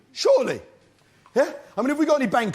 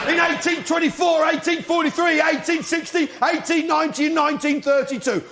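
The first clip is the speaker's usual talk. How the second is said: mock outrage; 5 semitones higher than usual. Ranting about Greece's defaults.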